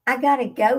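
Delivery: normal talking voice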